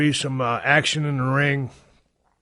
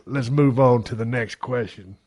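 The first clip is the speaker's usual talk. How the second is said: normal talking voice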